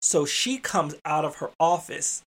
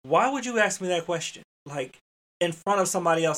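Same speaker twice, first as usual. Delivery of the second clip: higher, irritated parent's reproach; fatherly scolding; 3 semitones higher than usual. Retold or imitated. Father-like rebuke to a staff member, irritable. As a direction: take them to task like your own child. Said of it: "the tone that I would have used with my own child".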